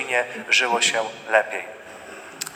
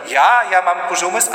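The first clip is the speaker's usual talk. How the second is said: higher, louder indignant retort; offended outrage; 6 semitones higher, 5 dB louder than usual. Acted. Insulted spouse firing back, loud and high. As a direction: bristle at the insult, voice jumping up. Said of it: "I ktoś powiedział".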